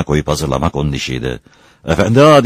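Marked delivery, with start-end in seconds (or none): 1.9-2.4 shouting. A narrator's reading. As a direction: yell to rouse a heavy sleeper. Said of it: "diye bağırdı tekrar". (bağırarak seslenme)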